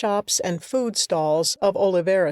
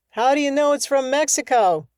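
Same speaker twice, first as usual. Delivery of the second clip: raised, higher call; 5 semitones higher, faster than usual. Acted. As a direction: shout up to the window. Calling up to the window.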